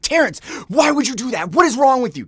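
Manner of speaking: high, loud mock outrage; fuming ex. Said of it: "was fuming, and she's like".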